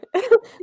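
high, teary burst of laughter; tearful laugh. Real, not acted. Host moved by her own confession, tearful laugh. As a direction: laugh through sudden tears.

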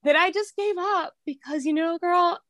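holding back real tears while telling it; tearful, voice rising. Real, not acted. Guest confessing on a podcast, near tears and high. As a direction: voice lifting high as tears come. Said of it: "I'm gonna cry".

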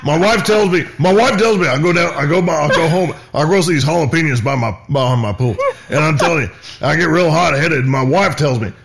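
a hint of a hot-headed host; Jelix Bond voice. Host character Jelix explaining his temper, lightly voiced. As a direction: play him barely holding his temper. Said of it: "his name is Jelix".

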